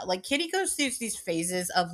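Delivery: ordinary delivery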